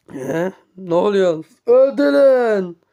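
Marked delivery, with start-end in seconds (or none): 1.7-2.8 commanding shout. Acted. Villain orders a killing.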